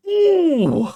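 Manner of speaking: high, loud drawn-out ooh; mock commentator ooh. Imitating the commentators' loud gasp at the overhead kick, a high ooh. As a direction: squeal it like an excited commentator. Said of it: "Fletcher and Ali McCoist go".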